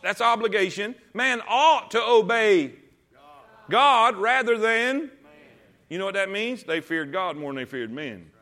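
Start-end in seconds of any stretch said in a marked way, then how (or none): 1.1-5.1 slow, louder, stretched-out proclamation; preaching emphasis. Real, not acted. Preacher stressing obedience to the congregation, slow and emphatic. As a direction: drive the word ought home slowly.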